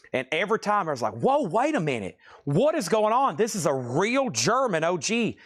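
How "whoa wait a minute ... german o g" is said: mock stunned whoa, jumping higher on what is going on; imitated bidder shock. Seller voices chat viewers, playful mock shock. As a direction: act out the viewers losing their minds.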